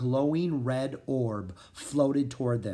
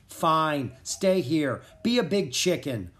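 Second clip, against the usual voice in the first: mild snap; 4 semitones higher than usual. Acted. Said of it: "Rory snapped".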